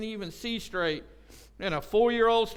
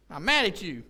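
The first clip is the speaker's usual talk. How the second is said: louder mock-angry insistence; mock insistent anger; 4 dB louder than usual. Wife insists to husband she's still mad after laughing, mock insistent. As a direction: imitate someone insisting they are still mad.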